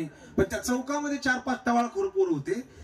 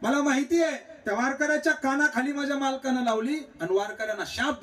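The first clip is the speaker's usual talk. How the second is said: high-pitched retold outcry of a wife; imitated wailing shout; 6 semitones higher than usual. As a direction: cry it out high, as the distraught wife. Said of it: "मोठ्या मोठ्यानं ओरडायला लागली". (मोठ्यानं ओरडण्याची नक्कल)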